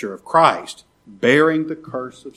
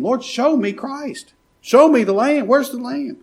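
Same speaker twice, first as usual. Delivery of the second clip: begging cry; 11 semitones higher than usual. Pretend. Preacher voicing a sinner crying out to God, higher pleading. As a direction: beg for the Lamb with a raised, aching voice. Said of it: "Cry to the Lord and beg him".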